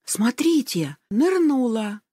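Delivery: high, thrilled exclamation; excited and eager, pitched well up; delighted. A narrator's reading. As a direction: share the discovery in hushed delight. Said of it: "в восторге прошептал я".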